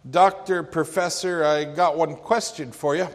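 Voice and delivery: put-on folksy old preacher with some bite; old preacher calling out. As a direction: challenge the professor from the back pew. Old preacher challenges professor.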